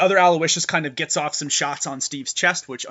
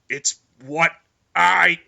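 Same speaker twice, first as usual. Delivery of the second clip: a flat machine-like voice that swells louder on "I am"; calm certainty, then a louder final push; stoic cyborg Steve; 3 semitones higher, 9 dB louder, much slower than usual. Acted. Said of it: "you just hear Steve just go".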